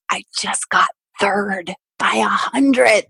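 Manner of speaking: slow, heavy, deflated reply; numb, dragged-out disbelief; devastated deadpan. Retold or imitated. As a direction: let each word sink, crushed. Devastated athlete answering testing staff.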